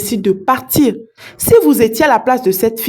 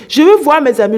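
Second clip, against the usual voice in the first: louder and higher, demanding to see her friends; insistent shout; 4 semitones higher, 4 dB louder, faster than usual. Retold or imitated. Woman insisting to the rich man, raised mock shout. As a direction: push it out like a frightened demand. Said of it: "elle commence à crier".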